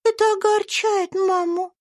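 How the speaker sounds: put-on high, bright child's voice; little girl Eva. A narrator's reading. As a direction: speak as a sweet little girl. (тонкий детский голосок)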